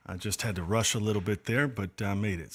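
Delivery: breathless after rushing in; out of breath. Real, not acted. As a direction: still catching breath from rushing. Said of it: "let me catch my breath".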